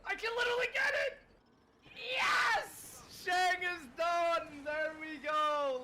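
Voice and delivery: high, loud victory yell; excited shout. Real, not acted. Easter egg just completed.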